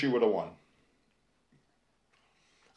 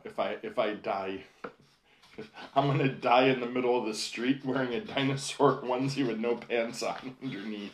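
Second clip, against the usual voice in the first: laughing through a quote. Retold or imitated. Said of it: "she was saying".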